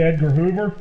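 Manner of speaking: usual speaking voice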